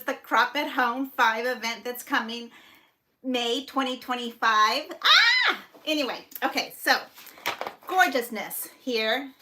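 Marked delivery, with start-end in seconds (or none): 5.0-5.6 high, loud squeal of delight; excited scream. Real, not acted. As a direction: shriek with real excitement. Squeal over upcoming event.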